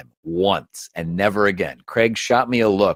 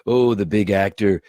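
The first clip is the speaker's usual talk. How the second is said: Jeff Peterson. Acted. Puppeteer busting the host's balls in character, mocking. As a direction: needle a big star with mock sympathy. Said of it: "fucking with him as Jeff".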